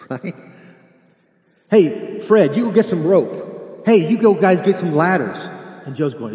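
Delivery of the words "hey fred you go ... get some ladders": loud, higher calls, slow; barking orders. Acted. Friend loudly directing the others to fetch rope and ladders. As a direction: shout out the plan to the crew.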